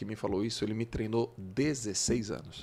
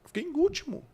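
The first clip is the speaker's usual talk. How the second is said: much higher, whiny mock sobbing; imitating crying boy; faster than usual. Boy telling the coach he came last, mock-crying. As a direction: play the kid who came last, wailing lightly. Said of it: "eu falando chorando".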